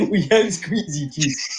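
laughing through it. Pretend. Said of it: "say it all with the emphasis".

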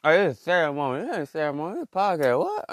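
mock scolding.

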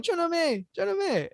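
put-on high Bisaya-accented calling of the name. Panicked Bisaya man calling for his girlfriend, Bisaya accent. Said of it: "running around going".

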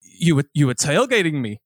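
mimicked old man's foreign accent, vaguely European. Old man accusing a driver of tailgating, European accent. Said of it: "some kind of European accent".

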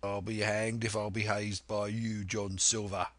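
lightly voiced defiant seaman; a hint of mutinous sailor; disgruntled pirate. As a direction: grumble back at the captain.

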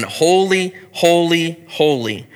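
light preacher impression, rising then falling; imitating R C Sproul. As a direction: hammer out the repeated word like a famous preacher. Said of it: "Anyone who's listened to about ten minutes of R C Sproul".

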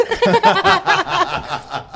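a high, loud burst of laughter; loud cackle. Real, not acted. Cackles at being called crazy.

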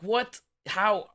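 retold astonishment, each word popping up; amazed disbelief. Host to a listener he has just met, amazed disbelief. Retells his amazed reaction.

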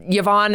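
"Yvonne" as yeh-VON; disliked pronunciation. Shown as a demonstration. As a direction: say "Yvonne" starting with a yeh sound. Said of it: "is a little harsh on my ears".

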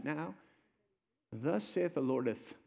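slow, mock-solemn old English; hammed-up pious decree; lightly voiced archaic prophet; mock King James Jesus. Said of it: "would never say it with that intensity".

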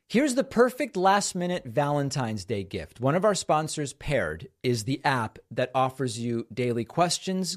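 ad read. Acted. Host reading a sponsor ad to listeners, polished ad voice. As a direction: sell the app like a practiced host.

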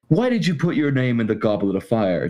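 even, gentle question as in the book; calm Dumbledore. Retold or imitated. Book Dumbledore questioning Harry, calm and measured. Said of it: "Dumbledore said calmly".

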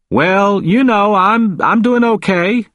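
high-pitched character voice, easygoing; Walter, cheerful but frail patient. A narrator's reading. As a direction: play the patient pitched well up, reassuring a friend.

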